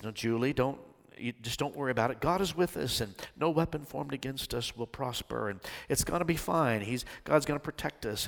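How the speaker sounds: lightly voiced calm pastor, reassuring Julie; steady and soothing, a touch understated. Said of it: "In a calm voice".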